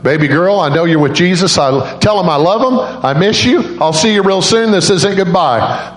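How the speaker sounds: high-pitched, heartfelt farewell; father's farewell. Retold or imitated. Father holding his dead little girl, high heartfelt farewell.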